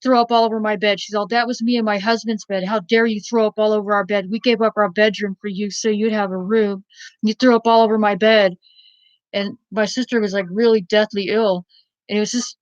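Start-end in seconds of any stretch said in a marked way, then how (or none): 0.0-8.6 mock angry scolding. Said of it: "the foster mother got so pissed because she goes".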